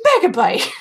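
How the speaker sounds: shouting the name out; excited shout. Retold or imitated. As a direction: call out Megabyte loudly. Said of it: "Bob going".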